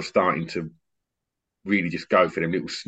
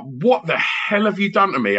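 higher, alarmed "what the hell"; mock panicked mate; 10 semitones higher, 3 dB louder than usual. DJ imitating his panicked mate at the decks. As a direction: play the flustered friend. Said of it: "he was like".

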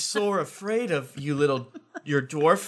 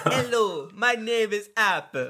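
fake French accent; 2 semitones higher, slower than usual. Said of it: "talk in a fake French".

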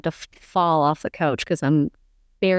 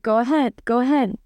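taunting; 6 semitones higher than usual. Retold or imitated. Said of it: "you know, taunting".

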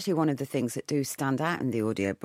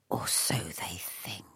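slow ominous whisper; hushed and slow, hinting at danger; 7 semitones lower, 8 dB quieter than usual. Pretend. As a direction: drop to a hushed, slow teaser. Ominous teaser in the intro.

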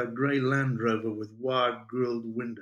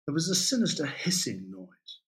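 ordinary delivery

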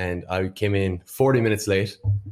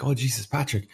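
excited Irish mammy, pitched up; eager, rising higher with excitement; mom voice; 4 semitones higher than usual. Retold or imitated. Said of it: "She's like".

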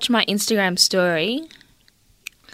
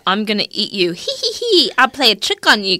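1 mock jester; 3 dB louder than usual. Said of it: "This is like a jester".

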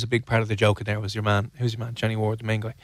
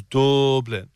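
put-on "Dublin" in a drawn-out culchie accent. Host mimics culchies saying the capital, culchie accent. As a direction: stretch the first vowel like a culchie. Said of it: "Culchie's trying to say Dublin".

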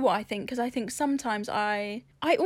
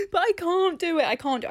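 high, pleading and overwhelmed, fading down; helpless whimper; 8 semitones higher, 3 dB louder than usual. Retold or imitated. Crushed self pleading she cannot cope, high and fragile. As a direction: beg like you're out of your depth. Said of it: "It makes me feel like".

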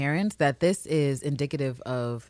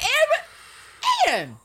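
高声恼火地喊名字; calling Anne high and loud; high exasperated call; 4 dB louder than usual. Real, not acted. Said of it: "And I'm like".

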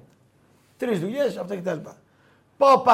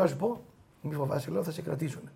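softer, lower, calming aside; lightly acted soft reassurance; gentle reassurance; 3 semitones lower, 7 dB quieter than usual. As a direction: retell quietly calming a worried colleague. He reassures a worried colleague.

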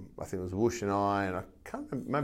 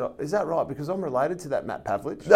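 pitched-up impression of a chatty barber; unsuspecting female barber; 7 semitones higher than usual. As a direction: lightly imitate her keen, oblivious claim. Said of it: "She said".

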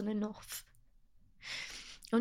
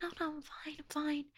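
high, breezy "I'm fine" with the level dropping; brushing it off; 6 semitones higher, 5 dB quieter than usual. Retold or imitated. Telling worried friends she's fine, high and dismissive. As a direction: wave off worried friends lightly. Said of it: "And I'd be like".

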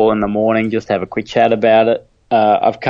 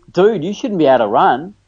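amazed; 6 semitones higher than usual. Retold or imitated. Doctor amazed.

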